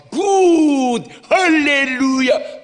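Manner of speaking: very high, loud, drawn-out cheer; joyful shout. Retold or imitated. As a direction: shout hallelujah with delight. Pastor cheering at good news.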